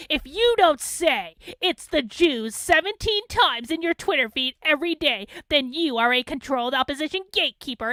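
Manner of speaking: sarcastic imitation of online critics; mocking critics. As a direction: ham up their whiny accusation. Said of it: "they're like".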